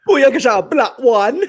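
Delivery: high, hammed-up Jamaican accent; mock a bad movie Jamaican accent. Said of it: "Jamaican accent was so bad".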